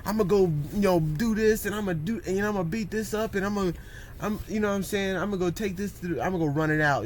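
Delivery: fired-up imitation of someone ready to burn off anger; pumped-up excitement. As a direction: sell it like you can't wait to go. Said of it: "now you excited about the anger".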